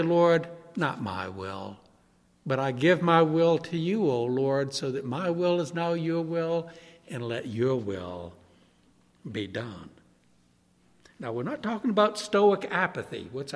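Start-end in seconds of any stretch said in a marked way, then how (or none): 0.0-9.9 much lower, soft, fading prayer; quiet surrender. Retold or imitated. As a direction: murmur your will away to the Lord.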